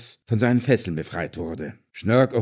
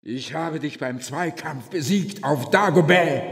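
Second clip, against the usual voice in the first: shout; 6 semitones higher than usual. Acted. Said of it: "rief Schnörk, so laut er konnte".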